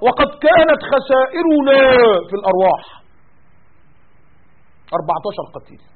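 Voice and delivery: a lightly voiced military bulletin; military statement read. Imitating an army spokesman reading losses in formal tone. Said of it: "بيان عسكري".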